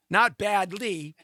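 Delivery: slow, leaning on "Not" in "Not badly."; corrective stress. Shown as a demonstration. Correcting Lee's word choice with a slow stress on not. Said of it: "New word".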